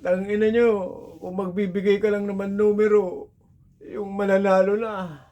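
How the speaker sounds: high, heated mock rant at the tree; angry cursing. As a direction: curse the spirit out, furious. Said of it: "Galit na galit, nagmumurad".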